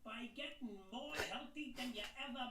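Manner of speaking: high, slow comic ranting shout; hammy shouty YouTuber rant; ranting loudmouth. Acted.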